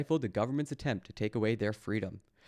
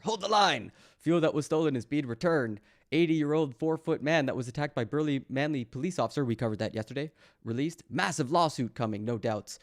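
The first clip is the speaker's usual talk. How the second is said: mock reading; 3 semitones higher than usual. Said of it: "I'm missing some great lines here".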